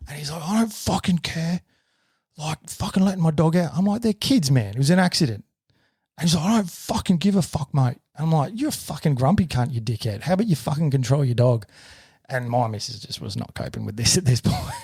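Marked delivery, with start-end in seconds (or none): 0.4-3.7 higher-pitched mock outrage; retold angry man. Acts angry dog owner in quarrel. 4.0-5.4 higher-pitched indignant defence; retold protest. Acted protest in quarrel. 6.4-8.0 much higher mock outrage; retold angry retort. Acts angry dog owner in quarrel. 8.6-11.7 retold angry insults. Acted quarrel, insults back.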